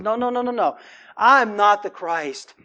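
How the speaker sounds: preacher voicing John's firm refusal; emphatic denial as John.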